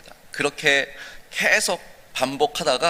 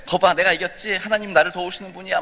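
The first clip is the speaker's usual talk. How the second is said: higher, gloating brag; boasting; 6 semitones higher than usual. Acted. Young man brags to Satan that God helps him, gloating. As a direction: rub your win in his face. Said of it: "자랑을 했어요".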